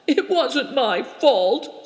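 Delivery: slow, high, tearful protest; a mild sob, pleading her innocence; sobbing. A narrator's reading. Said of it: "sobbed Turakina".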